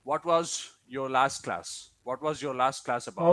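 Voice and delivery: "What" and "was" with a careful rounded W; careful W sound. Shown as a demonstration. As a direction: say "What was" with a true W, not a V. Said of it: "Ask me a question with a W".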